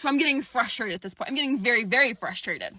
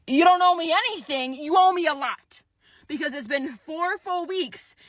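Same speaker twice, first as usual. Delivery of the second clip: indignant retort; 5 semitones higher, 6 dB louder than usual. Retold or imitated. Retorting to recruiter's claim.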